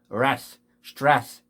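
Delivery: 레스 as "ras", then 스트레스 as one syllable "stras"; English stress in parts. Shown as a demonstration. Teacher breaking the word down, English pronunciation. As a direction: split then join 스트레스, no added vowels. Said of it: "에스티 발음이".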